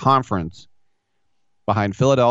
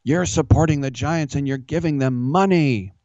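higher, whiny heckler; mocking heckler voice; 5 semitones higher than usual. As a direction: play the outraged fan, whiny. Heckler mocked in retold Twitter argument.

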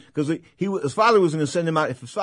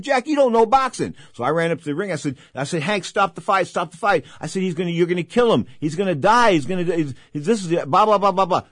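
high, loud pleading yell at ringside; reenacted yelling; 5 semitones higher, 4 dB louder than usual. Host reenacting yelling at the referee to stop fight. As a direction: shout it like you're begging the ref. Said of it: "I was screaming at the referee".

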